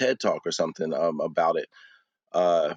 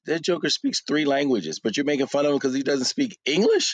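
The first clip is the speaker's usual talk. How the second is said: retold indignation; 5 semitones higher than usual. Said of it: "And I'm like".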